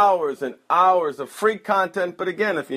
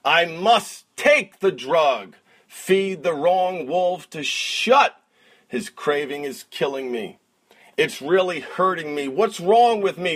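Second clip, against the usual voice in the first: rhythmic spoken word recital; slam poet; 5 semitones higher than usual. Acted. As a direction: perform it like a slam poem. Recites client's poem.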